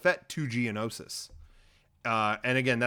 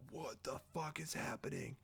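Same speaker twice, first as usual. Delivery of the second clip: hushed, stunned mock reaction; 2 semitones higher, 17 dB quieter than usual. The Republic receives Obi-Wan's findings, mock stunned hush. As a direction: drop right down as if dumbfounded.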